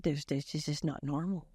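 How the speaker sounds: hushed worried aside to her father. Retold or imitated. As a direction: whisper it urgently to dad. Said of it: "turned to my father and said".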